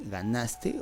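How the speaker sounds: "ganaste" slowly, with the beat on NAS; stress on NAS. Shown as a demonstration. Teacher offering the second option, stressed on NAS. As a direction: say "ganaste" as ga-NÁS-te. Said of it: "¿Cuál es la sílaba tónica?".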